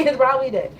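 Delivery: laughs, then repeats it amused; real laugh on the repeat; chuckling through the punchline. Real, not acted.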